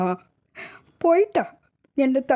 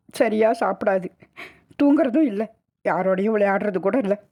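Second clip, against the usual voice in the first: higher, weeping account of a death; tearful lament; 4 semitones higher than usual. Acted. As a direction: tell it through tears, blaming yourself. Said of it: "மாரில் அடித்து கொண்டு அழுதாள்". (அழுதுகொண்டே புலம்புதல்)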